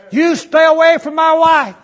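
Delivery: loud, high, slow yell; angry shouted threat. Retold or imitated. Drunk man warning preacher off his wife, shouting high and slow. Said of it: "That's what he said".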